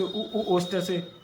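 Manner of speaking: उ drawn out slowly with rounded lips; teacher drilling उ slowly for students; slow vowel drill. Shown as a demonstration. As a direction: stretch उ, उ slowly, as if showing a class. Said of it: "आप ऐसे करो".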